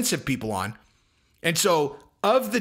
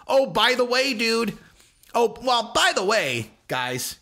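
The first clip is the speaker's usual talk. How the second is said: lightly mocking, higher offhand aside; flippant mimicry; 6 semitones higher, slower than usual. Host imitating people who broke the story casually, flippant. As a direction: imitate someone tossing it out casually. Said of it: "people who were just kind of flippantly like".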